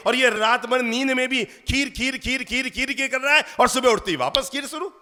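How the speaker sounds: a hint of a fed-up mother, rattling on; exasperated mother. Mother complaining to neighbours, lightly exasperated. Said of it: "मैं समझा समझा कर हार गई".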